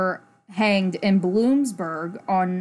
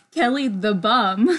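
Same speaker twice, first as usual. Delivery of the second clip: giggling out the name, breaking into laughter; can't keep a straight face saying Kelly the bum; laughing while reading out a silly nickname; laughing through it. Real, not acted.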